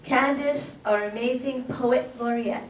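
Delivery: measured, rhythmic reading of rhyming verse; poem recital. Acted. Host honours the poet laureate with a poem, recited rhythmically. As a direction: recite it like a tribute poem on stage.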